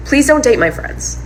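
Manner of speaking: high, pleading request; retold plea. Girlfriend asking partner to spare friends, retold plea. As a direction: plead lightly with the pitch up.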